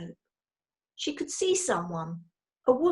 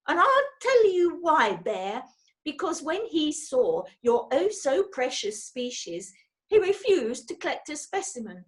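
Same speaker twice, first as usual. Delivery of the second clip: seething rage; 6 semitones higher than usual. A narrator's reading. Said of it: "in a voice that was seething with rage".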